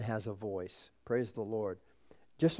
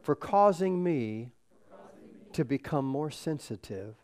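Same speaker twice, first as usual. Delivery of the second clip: praying out loud; 3 semitones higher, 8 dB louder than usual. Real, not acted. Leading the congregation in thanks to the Lord, praying loudly. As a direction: pray it out loud, higher and louder, phrase by phrase. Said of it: "but say it out loud".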